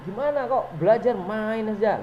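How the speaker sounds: a punishing teacher raising her pitch at a pupil; high-pitched scolding teacher. Shown as a demonstration. Teacher scolding a pupil who only plays, high-pitched scolding. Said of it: "Be-, suaranya tinggi".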